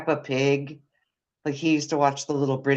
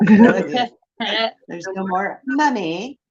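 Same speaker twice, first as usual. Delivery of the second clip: higher, louder British "Mummy"; child's British accent; 6 semitones higher, 6 dB louder, much slower than usual. Retold or imitated. Mom misses her son's Mummy, imitated British accent. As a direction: imitate a little boy's British accent, drawn out. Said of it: "in his British accent".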